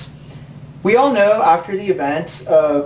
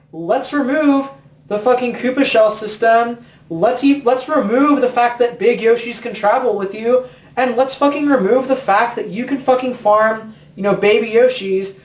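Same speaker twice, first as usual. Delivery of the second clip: mocking Nintendo; 3 semitones higher than usual. Mocking Nintendo's design decisions.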